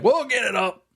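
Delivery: confident cousin. Retold or imitated. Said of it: "he says".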